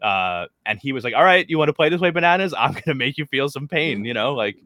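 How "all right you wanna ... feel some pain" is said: mildly heated mock threat, starting raised and settling; retold heated threat. Quoting Monty warning Bananas on the show, mildly heated. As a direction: imitate a fired-up player warning his rival. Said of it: "he got heated".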